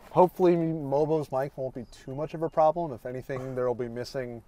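talking with a mouth full; chewing while talking, mouth full. Real, not acted. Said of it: "Sorry for talking with my mouth full".

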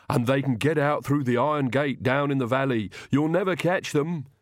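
doleful servant with a thick lisp; gloomy Igor figure. Acted. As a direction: lisp it out hopelessly. Narrator voices lisping Igor.

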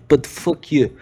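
mock Russian curse; Russian accent. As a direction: swear with a put-on Russian accent. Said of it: "In Russian, you say".

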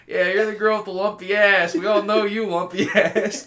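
loud, high laughing taunt; mock bully taunt cracking up. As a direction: jeer through giggles. Mocking taunt in a joke scenario.

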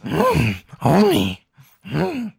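loud hammed-up wail; mock crying. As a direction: fake sobbing moan, high.

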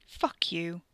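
whispered curse. Acted. Wes whispering insult.

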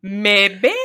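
put-on joking Canadian accent; mock Canadian. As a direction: put on a playful Canadian vowel. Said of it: "that Canadian accent".

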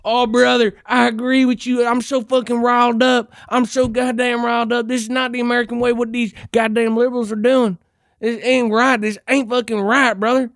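mocking the ad's target audience, worked up; mock riled-up patriot. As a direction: play the angry viewer the ad wants, calling everyone brother. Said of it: "It's supposed to get you".

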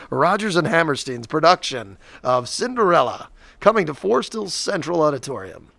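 formal theater announcer read. Pretend. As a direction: announce it like a stage production. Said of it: "that was a good announcer voice".

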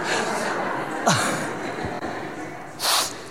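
soft laugh. Real, not acted. Laughs at own joke.

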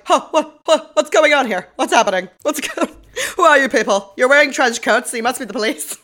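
high, loud panicked widow voice, hammed up; flustered squeal at the cops, playing it for laughs; mock frantic wife. Recapping the widow meeting detectives, mock panicked high squeal. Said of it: "And she's like".

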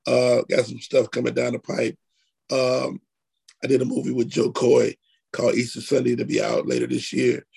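hoarse, low and worn from a cold; raspy voice. Real, not acted. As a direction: talk through a sore, raspy throat. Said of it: "Sorry for the raspy voice today".

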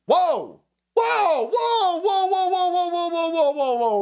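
shrill mock outrage at a slur; mock alarm. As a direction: pretend to be scandalised. Mock alarm at his own words.

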